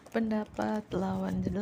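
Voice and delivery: ordinary talk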